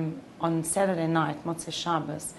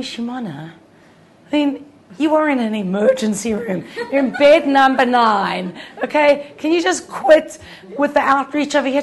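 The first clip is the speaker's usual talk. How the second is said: higher, louder laughing rebuke; laughing exasperation; 6 semitones higher, 9 dB louder than usual. Retold or imitated. Husband laughingly telling his wife to drop it, louder and higher. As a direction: tease her through laughter to quit.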